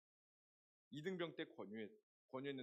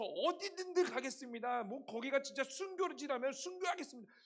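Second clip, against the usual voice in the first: louder, higher, zealous pleading; fervent prayer; 6 semitones higher, 6 dB louder than usual. Retold or imitated. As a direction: pray like a fired-up teenager. Retold fervent youth prayer.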